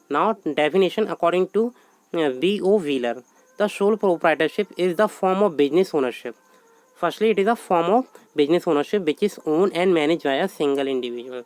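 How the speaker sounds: slow, measured dictation of a definition. Acted. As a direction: read it out word by word for notes. Teacher dictates definition in English.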